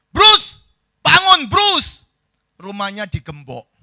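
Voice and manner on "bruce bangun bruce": high, full-volume yell to wake someone; shouting. Acted. Friend yelling to wake sleeping Bruce Lee, shouting. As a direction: holler the name, much higher and louder. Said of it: "teriak-teriak kepada Bruce Lee".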